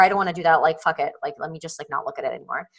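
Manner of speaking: dismissive avoidance fading. Retold or imitated. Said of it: "instead of just being like".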